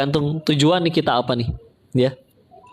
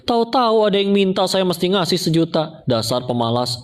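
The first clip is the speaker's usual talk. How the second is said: mock annoyed; 6 semitones higher than usual. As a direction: act out a mildly resentful complaint. (pura-pura kesal, menggerutu)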